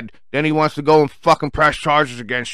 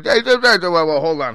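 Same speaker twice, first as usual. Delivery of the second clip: acted interruption; 3 semitones higher than usual. Security breaks up the argument.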